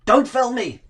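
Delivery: high-pitched mock protest, imitating his wife. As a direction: squeal it like a wife dodging the camera. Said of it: "you hear her going".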